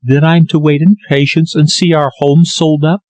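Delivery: a hint of tears as she asks; tearful daughter, lightly voiced; Lily, near tears.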